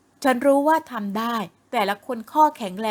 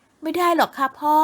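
firm refusal, pitched higher and slow; 6 semitones higher, 3 dB louder, slower than usual. Acted. Daughter firmly refuses her father's offer to quit. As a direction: set her foot down with a firm no. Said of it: "ทำเสียงแข็ง".

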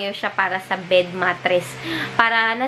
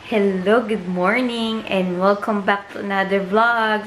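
just woke up. Real, not acted. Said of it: "Sorry, kakagising ko lang".

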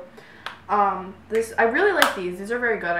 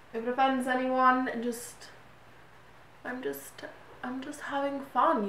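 light, playful British accent attempt; 2 semitones higher than usual. Vlogger practising for her London dream, light mock-British accent. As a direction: keep up an amateur British accent. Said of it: "talking in a British accent for the rest".

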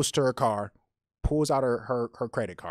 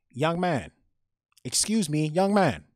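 mock Chinese accent; 5 semitones higher, 4 dB louder, slower than usual. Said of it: "Really good Asian accent".

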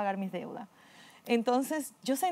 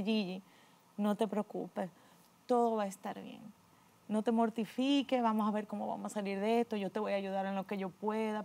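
soft, calm brother comforting his sister; gentle reassurance; 5 dB quieter than usual. Retold or imitated. Brother comforts his despairing sister on the bed, softly reassuring. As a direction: hush and soothe her like a caring brother.

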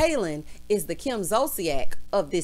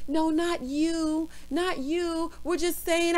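higher, drawn-out soothing tone; mock pacifying; 5 semitones higher, slower than usual. Friends explaining to crying Kaylin, mock pacifying. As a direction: imitate friends placating someone upset. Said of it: "they're pacifying her".

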